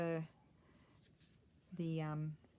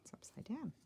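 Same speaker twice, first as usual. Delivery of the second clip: whispered note to herself; breathy voiceless aside; 6 semitones higher, 6 dB quieter than usual. Real, not acted. Muttering to herself at craft table.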